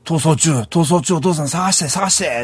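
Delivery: a hint of an insistent kid; imitating excited daughter. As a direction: mimic a daughter pestering dad in eager repeats. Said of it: "娘がね".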